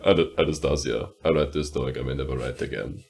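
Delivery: Dimitri letter voice. Retold or imitated. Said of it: "make you Dimitri say".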